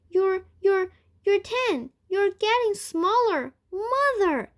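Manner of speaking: high, loud, panicked pleading; frightened daughter crying out; shrill alarm. A narrator's reading. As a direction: beg her to stop before it's too late. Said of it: "shrill note of alarm in her voice".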